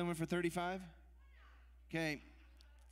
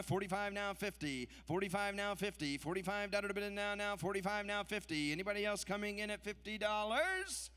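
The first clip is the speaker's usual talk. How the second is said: rapid rhythmic bid chant; auctioneer; 3 semitones higher than usual. Acted. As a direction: rattle off the numbers in a rolling chant. Live charity auction bid calling.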